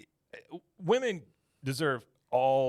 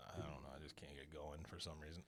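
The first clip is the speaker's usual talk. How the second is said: sluggish retold reply; 7 semitones lower, 19 dB quieter than usual. Retells his sluggish answer to wife.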